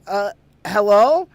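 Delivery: slow, hesitant hello; timid call. Retold or imitated. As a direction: call out warily into the dark. Calling to girl in tub.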